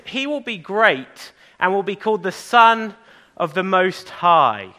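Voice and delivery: slow Bible verse reading; scripture reading. Acted. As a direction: read it slowly like scripture. Rereads verse to children.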